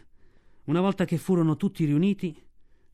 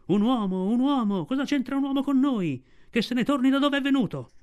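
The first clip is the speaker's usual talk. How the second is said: much higher, raised crowd cry; pack shouting; 9 semitones higher than usual. Acted. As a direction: shout it out as an angry mob. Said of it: "oltre metà del branco gridò".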